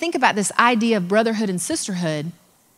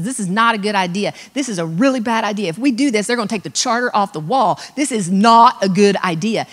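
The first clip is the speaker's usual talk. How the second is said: voice of reason. Retold or imitated.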